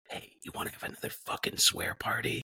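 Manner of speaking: hushed, conspiratorial whisper. Retold or imitated. Kid to brother at lunch, secretive whisper. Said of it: "whispered to my brother".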